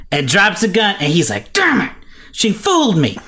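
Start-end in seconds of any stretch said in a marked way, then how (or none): 1.5-3.2 high-pitched exasperated outburst; hammed-up sore loser; mock frustration. Clark realizing Lois tricked him, mock frustration.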